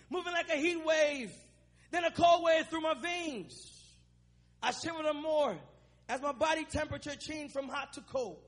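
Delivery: emphatic, measured spoken-word verse; spoken-word recital. Acted. Preacher performing own rap for the congregation, spoken-word recital. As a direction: recite it line by line like a poem.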